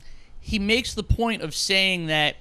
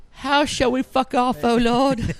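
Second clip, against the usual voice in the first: eager devotee; 7 semitones higher, 6 dB louder than usual. Retold or imitated. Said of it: "and they're like".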